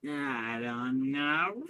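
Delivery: slow, drawn-out feigned doubt; smug. Acted. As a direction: drag it out, smugly noncommittal. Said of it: "sits there with a smug look".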